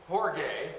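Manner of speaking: "Jorge" with the stress on the first syllable, like an H; Greek orge. Shown as a demonstration. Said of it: "Accent over this is, sounds like an H". ("Jorge" pronounced HOR-geh, Greek style)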